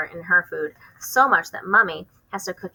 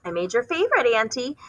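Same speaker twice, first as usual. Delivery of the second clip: sing-song; 5 semitones higher than usual. Acted. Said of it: "high sing-song voice".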